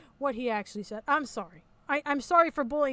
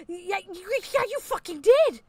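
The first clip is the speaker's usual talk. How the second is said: mock voice; 6 semitones higher, 3 dB louder than usual. Mocking retort in argument.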